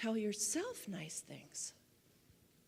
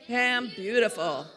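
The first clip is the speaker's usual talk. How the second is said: louder, more emphatic repeat; 6 dB louder than usual. Shown as a demonstration. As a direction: say it again with more force. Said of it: "One more time".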